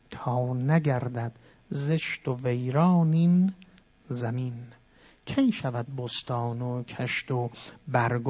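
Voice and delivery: poem recitation. Acted. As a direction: recite Rumi gently and measured. Recites Masnavi verses.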